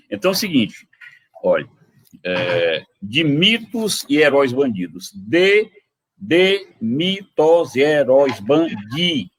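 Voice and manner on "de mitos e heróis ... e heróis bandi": slowed verse, each syllable spaced; counting syllables. Shown as a demonstration. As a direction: spell out the metre as you speak. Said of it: "sete sílabas". (contando as sílabas do verso)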